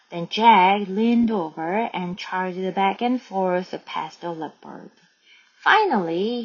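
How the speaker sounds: slow, measured read-aloud; story narration. A narrator's reading. Teacher reads Jack's gorilla act to learners, slow narration. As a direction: read the story out slowly, phrase by phrase.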